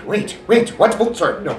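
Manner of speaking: high, loud flustered villain voice; high startled villain apology; Wily slipping. Acted. Breaks out of Wily voice.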